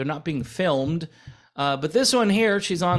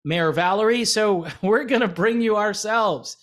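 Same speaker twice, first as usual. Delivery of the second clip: mock sales pitch; 2 semitones higher than usual. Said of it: "they might say".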